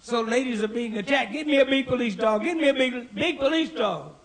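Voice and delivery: high-pitched, mock-anxious nagging; worried wife. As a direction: plead like a fretful wife, building in pitch. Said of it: "She's always worrying me".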